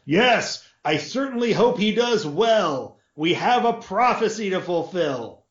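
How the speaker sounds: a lordly master back at full volume; lord's normal voice. A narrator's reading. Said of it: "raised his voice back to the normal level".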